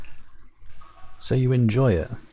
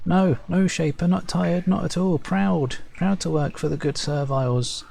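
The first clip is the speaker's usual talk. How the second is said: higher, quick eager protest; anxious denial; 8 semitones higher than usual. Acted. Servile farmer denying he is tired, higher and anxious. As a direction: insist he's not tired, too eagerly.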